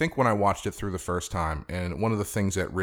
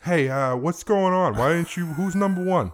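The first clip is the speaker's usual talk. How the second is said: hammed-up higher, louder mailman voice; angry mailman; 7 semitones higher, 3 dB louder than usual. Mailman demanding to know who number one is, hammed-up indignation. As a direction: play a pushy mailman wanting answers, pitched up. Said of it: "His mailman is like".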